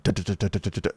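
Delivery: soft rapid heartbeat sounds; softly thump out a racing heart; heartbeat imitation. Imitating his pounding heart during the search, softly. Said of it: "My heart starts fucking thumping".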